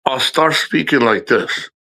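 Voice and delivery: slow speech with a slight whistle; whistling, impeded speech. Shown as a demonstration. Showing viewers how speech goes when the nerve locks, slight whistle. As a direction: talk as if the mouth won't open fully. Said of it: "like, the whisk".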